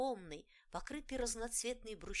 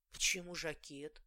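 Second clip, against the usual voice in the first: surprised; 3 semitones lower, 4 dB louder than usual. Acted. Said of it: "удивилась мать".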